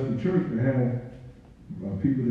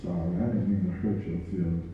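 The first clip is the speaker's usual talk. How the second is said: soft apology; 4 semitones lower, 5 dB quieter than usual. Retold or imitated. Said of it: "I said".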